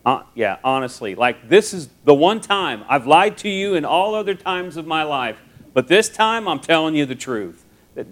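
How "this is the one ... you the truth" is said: higher, louder mock-earnest pleading; acted plea to be believed; emphatic insistence. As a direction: insist you really mean it this time. Acted insisting they are honest.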